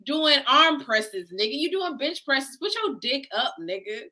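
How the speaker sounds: high, hammed-up telling-off; mock scolding. Friend pretending to yell at the gym guy, mock angry scolding. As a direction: bark it at a shirtless guy in the gym, half joking. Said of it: "There's no part of you that's like".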